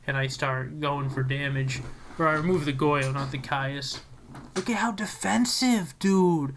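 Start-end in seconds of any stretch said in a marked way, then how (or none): 4.6-6.5 higher, whispered teasing; teasing whisper at the opponent; mock whisper tease. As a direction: whisper it like mocking a friend. Teasing own cautious play.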